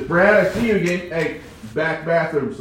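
loud, pushy order to the back bathrooms; retold boss shouting orders; bossy call. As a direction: boss him around again. Boss ordering him again.

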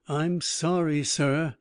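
gasping, short of breath; panting after a swim. Acted. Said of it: "he gasped out of breath".

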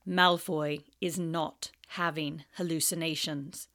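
low cold snarl; Snape snarl. Acted. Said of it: "snarled Snape".

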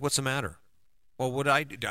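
a touch of defensive irritation, pushing back. Retold or imitated. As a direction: answer as if accused, lightly on guard. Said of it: "I would get defensive".

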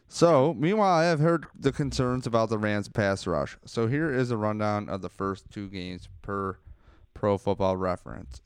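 slight lisp from a numb face. Real, not acted. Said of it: "if I have a lisp, it's 'cause, uh, my face is numb".

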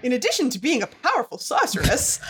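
rising to a laughing shout; boastful sorceress showing off, building up; grand queen boast. Acted. Voicing Casta's grand boast.

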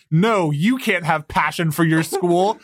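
lightly voiced old lady; a hint of an old lady; elderly woman. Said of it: "the implication that Diana's like".

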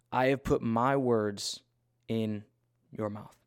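emphatic preacher's Bible reading in weighted phrases; scripture reading. Acted. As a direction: proclaim the passage, pausing for weight. Reads scripture aloud.

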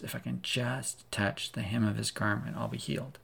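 very soft and hushed, almost to herself; hushed inner thought. Acted. Sick woman pressing through the crowd, hushed inner hope. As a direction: murmur it like a secret hope you barely dare say.

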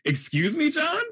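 a stunned, rising Excuse me; mock outrage at a student's odd remark; shocked disbelief. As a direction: pitch leaps up on John, disbelieving. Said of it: "I was like".

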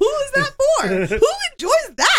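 high, loud, laughing disbelief; comically appalled, voice shooting way up; incredulous outburst. Real, not acted. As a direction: shriek the question in baffled disbelief. Incredulous outburst about fake porn noises.

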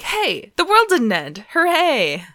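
high, loud cartoonish hooray; giddy mock relief; mock cheer. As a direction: toss it off like a sarcastic celebration. Comic opening voiced as cheer.

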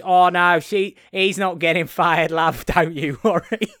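loud Cockney-sounding attempt at Australian; hammed-up Australian boss, cracking up at the end; badly faked Australian accent. Boss reassures the little girl, badly faked Australian accent.

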